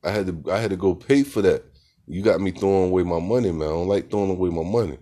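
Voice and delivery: hammed-up complaint about wasted money; mock rant about money. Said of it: "I said".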